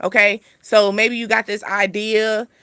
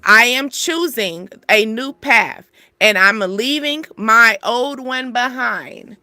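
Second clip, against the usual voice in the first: firm, slow, proud declaration; with your chest; 4 dB louder, slower than usual. Shown as a demonstration. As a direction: say it with your chest, like you mean it. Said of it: "So say this with your chest".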